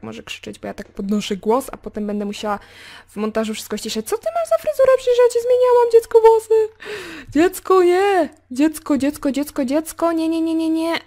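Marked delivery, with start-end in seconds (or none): 4.1-11.0 very high, squeaky scolding; mock outraged squealing. Player scolding her Sim child over hair, mock outraged squeal. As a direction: fuss at a child in exaggerated high-pitched dismay.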